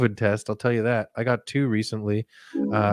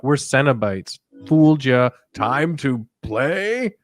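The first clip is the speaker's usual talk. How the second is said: spring the trap, then slow and ominous; gotcha Cenobite; 2 semitones higher, slower than usual. Retold or imitated. Cenobites revealing the trick, then slow menace. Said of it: "they're like".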